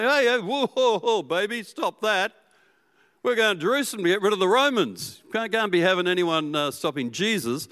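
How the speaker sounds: high, urgent hushing of a pushy crowd. Acted. Crowd hushes the blind beggar calling to Jesus, high and urgent. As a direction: shush him like an annoyed bystander.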